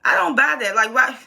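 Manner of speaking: lightly acted "are you serious" rant at the character; incredulous viewer scolding a TV character; exasperated disbelief. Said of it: "I'm just like".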